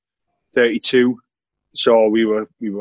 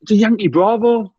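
deadpan teammate; 8 semitones higher than usual. Retold or imitated. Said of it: "he's went".

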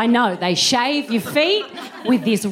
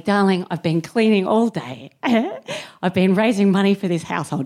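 a hint of a martyred mother, lowered voice; milk the guilt lightly; laying it on thick; 4 semitones lower than usual. Tired cleaner mum guilting her child, mildly hammed-up. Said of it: "didn't lay it on this thick".

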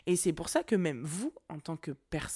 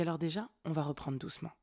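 re-enacted soft, composed reply; calm the other person down gently; calme, sans aigus; 4 dB quieter than usual. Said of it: "Je suis pas montée dans les aigus". (ton doux et posé, sans s'énerver)

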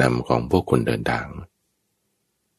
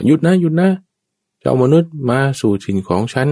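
giant's shout; 12 semitones higher, 4 dB louder than usual. Acted. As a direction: roar at the man like a giant. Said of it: "ยักษ์มันก็จึงตะโกนว่า". (ยักษ์ตะโกนเสียงดังก้อง)

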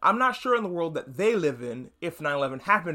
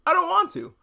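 put-on much higher and louder childish whine; bratty refusal; 13 semitones higher, 5 dB louder than usual. Voicing Homelander refusing to save the plane, high and petulant. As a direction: whine it like a spoiled kid. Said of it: "because Superman wanted to".

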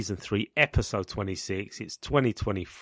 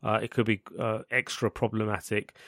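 croaky sick voice; hoarse from a cough; gravelly voice. Real, not acted. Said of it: "a gravelly voice".

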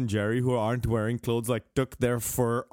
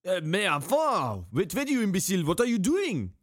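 put-on outraged French accent; 4 semitones higher than usual. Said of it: "Thierry Henry".

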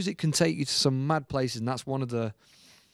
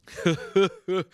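short put-on chuckle, pitched up; imitated producer's laugh; 6 semitones higher, 3 dB louder than usual. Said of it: "I always remember his laugh".

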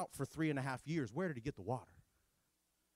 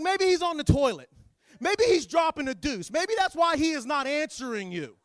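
mocking taunt; 8 semitones higher, 7 dB louder than usual. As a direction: needle them with fake concern. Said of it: "He starts to mock 'em".

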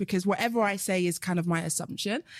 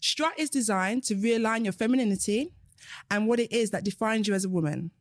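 reading aloud. Acted. Reads out another client's comment.

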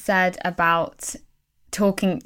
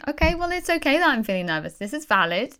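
compassionate; 4 semitones higher, faster than usual. Retold or imitated. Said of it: "with just that compassion".

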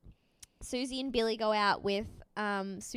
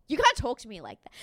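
rattled off fast, slightly louder, half-hearted mock snap; quick retort; 6 dB louder, faster than usual. Retelling Susie snapping at Billy, fast mock retort. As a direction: toss it off quick and petty. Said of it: "And she goes".

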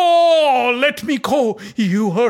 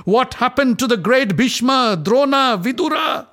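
much higher, louder furious accusation; raging; 10 semitones higher, 5 dB louder than usual. Acted. Draupadi rebukes the silent Kuru elders, raging. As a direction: shame the elders with fury. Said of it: "transformed into pure rage".

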